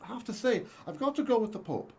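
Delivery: bad stage Irish accent. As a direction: ham up an Irish lilt. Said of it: "do not do good, uh, Irish accents".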